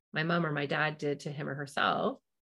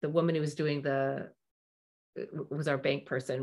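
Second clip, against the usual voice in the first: ordinary talk, nothing marked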